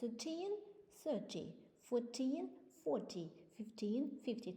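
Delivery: put-on "Thirteen" stressed on "teen", "thirty" stressed on "thir"; teacher showing "Thirteen" against "thirty"; contrast teen and ty. Shown as a demonstration. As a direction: set each pair against each other by stress. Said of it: "запам'ятайте різницю".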